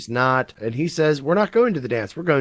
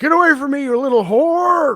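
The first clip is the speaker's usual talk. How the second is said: put-on loud, very high, raised old man yell; 13 semitones higher, 6 dB louder than usual. Retelling a story, acting out a man's reply to a girl offering help, imitating an old man. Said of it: "And he's like".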